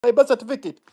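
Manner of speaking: high, cocky parody of a know-it-all; mock the entitled young upstart; mocking Gen Z voice.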